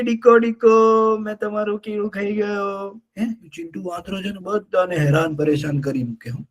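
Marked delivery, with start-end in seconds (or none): 0.0-3.0 mocking taunt. Monkey mocking the elephant.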